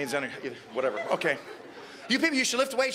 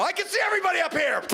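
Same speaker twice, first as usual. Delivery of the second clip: silly high voice; 10 semitones higher than usual. Retold or imitated. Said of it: "you know".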